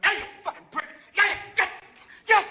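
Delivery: hammed-up drunk aggression; mock angry pot smoker. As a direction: pot smoker faking a fight. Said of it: "a man who's going".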